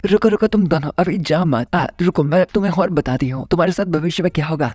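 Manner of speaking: high-pitched shout of "wait, wait"; calling after them. Acted. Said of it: "चिल्लाती बताती है".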